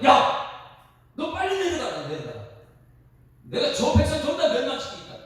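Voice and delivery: loud, high outburst of divine anger; angry God. Acted. God orders Moses down the mountain, angry and loud. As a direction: bark the order as an enraged God. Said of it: "막 그러면서 화를 막 냅니다".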